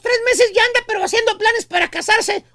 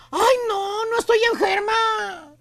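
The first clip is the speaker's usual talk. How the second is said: mock lovesick whine; slower than usual.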